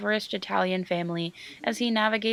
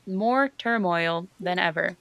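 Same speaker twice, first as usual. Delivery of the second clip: slow; slower than usual. Shown as a demonstration. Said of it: "Try to say more turmoil really fast".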